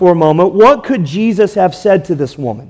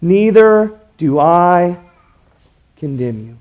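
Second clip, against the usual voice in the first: slow, soft tender words; 2 semitones lower than usual. Shown as a demonstration. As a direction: say "Neither do I condemn you" slowly and gently, letting it fade. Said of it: "Jesus looks at her and says".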